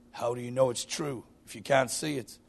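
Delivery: lightly voiced wise Gorgonite; a hint of a wise old sage, understated. Gorgonite questions the little boy, lightly wise voice. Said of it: "wise voice".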